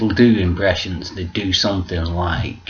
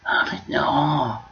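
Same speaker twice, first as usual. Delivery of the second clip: high, drawn-out sarcastic wonder; mock amazement; 7 semitones higher, slower than usual. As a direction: imitate an impressed crowd, swooping up. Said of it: "And then everyone will go".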